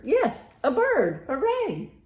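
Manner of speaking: normal talking voice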